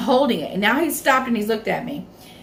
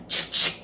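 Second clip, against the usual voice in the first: shotgun pump noise. Retold or imitated. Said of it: "It said".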